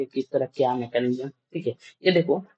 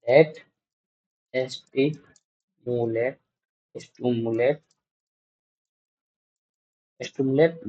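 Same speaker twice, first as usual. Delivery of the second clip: slow; 4 dB quieter, much slower than usual. Shown as a demonstration.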